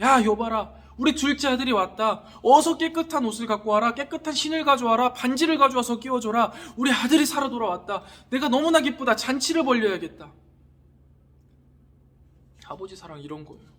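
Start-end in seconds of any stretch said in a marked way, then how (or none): 0.0-10.3 loud, raised voice calling out orders; high, emphatic father's proclamation; overjoyed father. Acted. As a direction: act out a father urgently welcoming his son home. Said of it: "아버지가 그때 이야기하시는 거예요".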